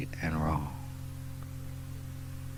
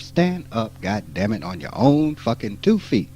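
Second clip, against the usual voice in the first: emphatic shout; 2 semitones higher than usual. Real, not acted. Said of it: "My language now is emphatic".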